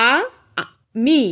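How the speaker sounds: "আ, মি" said as separate beats with a gap; syllable by syllable. Shown as a demonstration. Teacher showing the class how the word breaks into beats, syllable by syllable. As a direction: split it into "আ" ... "মি". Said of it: "আমরা কিন্তু এইভাবে বলছি".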